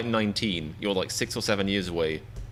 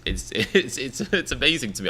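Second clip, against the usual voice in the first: laughing while talking; 4 semitones higher than usual. Real, not acted. Amused and impressed, laughing as he talks.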